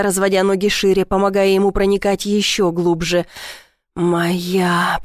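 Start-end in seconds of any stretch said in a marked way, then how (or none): none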